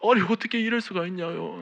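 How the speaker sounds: retold indignant prayer, voice climbing; reenacted angry complaint. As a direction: complain bitterly, demanding an answer. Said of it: "원망하며 따지듯이".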